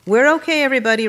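high, loud call to a crowd. A narrator's reading. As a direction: address the whole hall to calm them. Groom calling out to wedding crowd.

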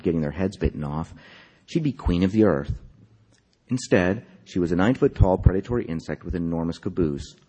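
measured literary reading, phrase by phrase; story narration. A narrator's reading. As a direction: read the story aloud with deliberate, lifted phrasing. Reads own story aloud.

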